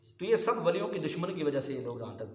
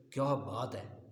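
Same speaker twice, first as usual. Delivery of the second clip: a softer, lower "کیا بات ہے" in wonder; amazed; 4 semitones lower, 4 dB quieter, much slower than usual. Shown as a demonstration. Preacher showing how someone says "کیا بات ہے" in amazement. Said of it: "بندہ تعجب کی وجہ سے کہتا ہے".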